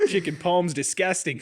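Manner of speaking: mock-Aussie disdain; deadpan joke in Australian; Australian accent. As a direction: declare it in a put-on Australian accent. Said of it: "talk the rest of this episode in that accent".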